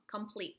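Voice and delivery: complete begun with "kum"; short "uh" in the first syllable of complete; prefix said "kum". Shown as a demonstration. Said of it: "That's how we pronounce it".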